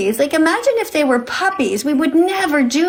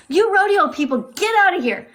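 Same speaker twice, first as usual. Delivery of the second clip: higher, sharp rebuke; angry dismissal; 4 semitones higher than usual. Real, not acted. Host ordering rodeo trolls out of the stream, higher angry rebuke. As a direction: throw them out with scorn.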